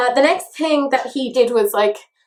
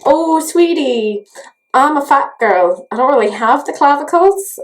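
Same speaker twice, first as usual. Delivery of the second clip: sassy retort; 3 semitones higher, 4 dB louder than usual. Retold or imitated. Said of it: "to which I'm like".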